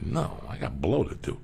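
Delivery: tossed off through a laugh; laughing brush-off to the cowboy; laughing retort. Retold or imitated. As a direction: say it half-laughing, dismissive. Retelling his brush-off answer.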